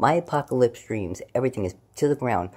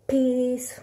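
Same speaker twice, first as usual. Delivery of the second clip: "Peace" in a much higher, strained squeak; high strained "Peace" that fails; squeaky peace; 13 semitones higher than usual. Shown as a demonstration. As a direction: try a high squeaky sign-off. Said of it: "Can't do it that way".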